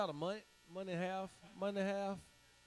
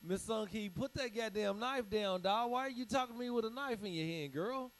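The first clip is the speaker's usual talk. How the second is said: pleading to put the knife down; 6 semitones higher than usual. Retold or imitated. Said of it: "I was like".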